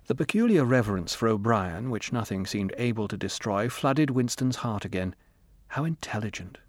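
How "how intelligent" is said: softer, inward musing; inner thought. Acted. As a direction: think it to yourself, hushed. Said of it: "he thought".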